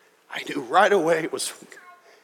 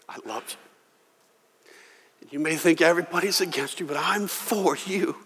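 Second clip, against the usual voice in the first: tender voice of God; 4 dB quieter than usual. Pretend. God speaking tenderly to pastor.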